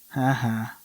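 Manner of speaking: breathless unvoiced ha ha; a shaky little laugh under the breath. Reading the game's shaky psychopath laugh. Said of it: "A shaky laugh".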